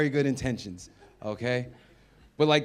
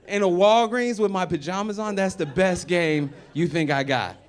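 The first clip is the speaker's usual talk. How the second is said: laughing; 6 semitones higher, 8 dB louder than usual. Real, not acted. Laughing at his own game.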